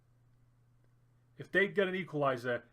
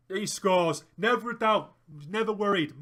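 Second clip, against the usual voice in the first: higher, louder cheer; real relieved triumph, punchy and high; elated celebration; 3 semitones higher, 5 dB louder than usual. Real, not acted. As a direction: celebrate the goal out loud. Celebrating penalty goal.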